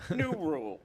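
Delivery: a light take on Bill Maher's announcer punch; Bill Maher impression. Host announcing new rules in a lightly done Bill Maher voice. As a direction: hit each new rule like a late-night host. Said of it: "doing the Bill Maher bit".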